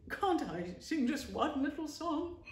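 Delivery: high, slow, pleading little voice. Acted. Toad begs Rat for one song, pleading. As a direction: beg like a child for a treat. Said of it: "he pleaded".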